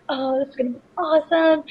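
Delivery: high, eager guy voice; eager excitement. Retold or imitated. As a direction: imitate an overeager newbie. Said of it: "and they're like".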